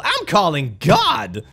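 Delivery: slow, drawn-out, dramatic threat; entitled customer. Acted. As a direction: drag it out like a final threat. Karen escalating to the next level.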